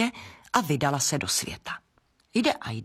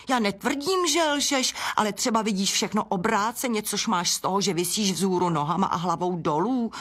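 high, quick hen retort; a hen having the last word; indignant hen; 3 semitones higher than usual. Acted. (slepice, která má poslední slovo)

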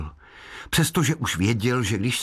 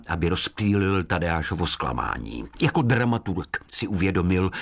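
ordinary delivery, nothing marked

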